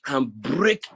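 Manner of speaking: angry exhortation, key words drawn out; worked-up anger. Real, not acted. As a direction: urge them on with real heat and punched words. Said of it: "each time I talk and I'm angry".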